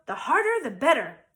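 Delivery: squeaky temptress pigtail; little pigtail voice. A narrator's reading. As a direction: coax him like a tiny imp.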